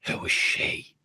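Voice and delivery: hushed, unvoiced whisper. Player whispers in character to McLovin, whispering. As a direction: whisper it secretly to a companion. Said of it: "I'll whisper to McLovin".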